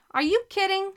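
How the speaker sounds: high, rising protest at being blamed; indignant disbelief. A narrator's reading.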